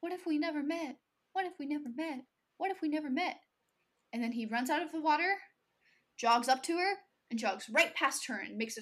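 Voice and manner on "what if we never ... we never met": echoing voice. Retold or imitated. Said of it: "her voice echoing in his head".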